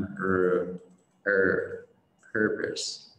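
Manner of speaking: "er" held alone, then "purpose"; er sound. Shown as a demonstration. Teacher isolating the vowel for learners, held "er". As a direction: isolate the "er" vowel before the word. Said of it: "đằng sau cái âm er là một âm".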